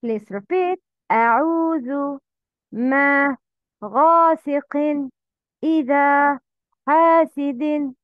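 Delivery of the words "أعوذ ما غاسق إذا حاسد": long vowels held two beats in أعوذ and ما; natural madd. Shown as a demonstration. Teacher drilling learners, long vowel in each, أعوذ to حاسد. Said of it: "Make long sound with two beats".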